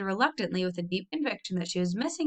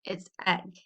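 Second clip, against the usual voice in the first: ominous; 3 dB quieter than usual. A narrator's reading. Mother announces what she found, ominous and quiet. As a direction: let the discovery land darkly. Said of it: "in an ominous voice".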